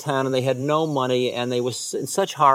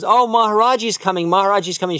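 put-on excited child's call; 5 semitones higher, 4 dB louder, faster than usual. Child spots guru arriving.

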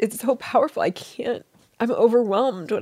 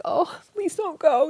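slow, higher, a touch of begging; pleading; 5 semitones higher, slower than usual. Retold or imitated. Begging her husband to stay, slow and pleading. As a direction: draw it out like a plea.

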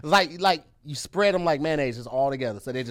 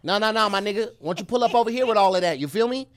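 nasally L.A. street accent, higher pitched; California accent; 5 semitones higher than usual. Shown as a demonstration. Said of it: "How California talk?".

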